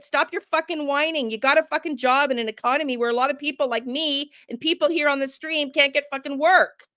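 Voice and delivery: real heated rant. Real, not acted. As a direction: vent at the strikers. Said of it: "be done with my rant".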